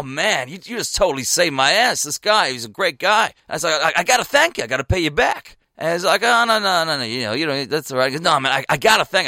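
classic American lad telling a bar story; loud American accent. Retold or imitated. American lad telling his mates about a broken demonstration, loud American accent. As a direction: imitate an animated American storyteller. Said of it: "He's like your classic loud American".

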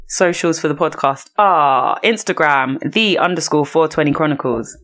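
talking with water in mouth; water held in mouth. Real, not acted. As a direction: wet mouth from a retainer. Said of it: "I feel like there's bare water in my mouth".

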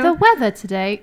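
crisp British take on the line; British accent. Shown as a demonstration. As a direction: say it like a Brit. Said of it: "No, that's British".

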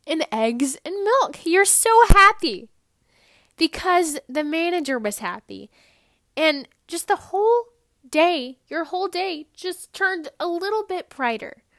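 high, loud, bubbly overexcited delivery; exaggerated cheery storytelling. Podcaster hamming up a happy grocery trip, over-the-top cheerful. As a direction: ham up the giddy happiness. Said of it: "I know I'm being funny".

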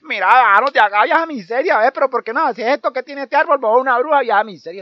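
high, loud wailing, pleading through tears; crying boys. Acted. Stuck boys crying up in the tree, loud wailing. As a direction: sob and beg the old woman. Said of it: "empezaron a llorar".

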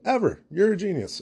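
high, over-the-top fawning fan voice; Steve Martin gushing. Retold or imitated. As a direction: gush like a starstruck fan, way up high. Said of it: "and he's like".

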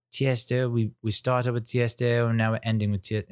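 hammy attempt at a British accent; horrible British accent. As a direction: imitate a British instructor, badly. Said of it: "that's a horrible British accent".

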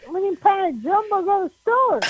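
mock Pittsburgh accent. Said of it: "a Pittsburgh native who's like".

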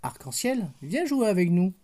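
a touch of friendly calling; calling fish. Acted. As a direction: call out to the pretty fish to come play.

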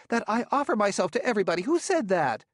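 high, loud, fast indignation; indignant shout. Acted. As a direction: fire it back in outrage. Indignant demand after accusation.

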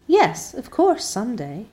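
bright, high eager answer; eager Diana. Acted. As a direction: answer her friend eagerly, pitch up.

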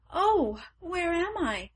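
high startled cry on waking; surprised cry. A narrator's reading. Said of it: "she cried".

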